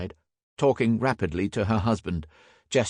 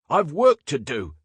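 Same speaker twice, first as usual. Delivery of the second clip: loud, higher, impatient protest; shouting; 7 semitones higher, 5 dB louder than usual. A narrator's reading. Inspector protests his arrest, shouting. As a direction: insist indignantly on being freed. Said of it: "shouted Field".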